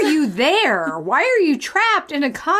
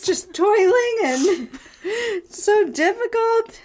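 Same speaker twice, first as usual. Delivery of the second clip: mock pity; 4 semitones higher, slower than usual. Mocking the reader's hard life.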